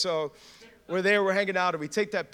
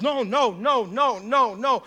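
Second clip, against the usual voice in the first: distraught denial; 6 semitones higher, 9 dB louder, much slower than usual. Retold or imitated. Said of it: "he begins to cry".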